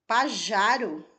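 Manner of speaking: slow dictation. Shown as a demonstration. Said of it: "A professora ditou duas vezes".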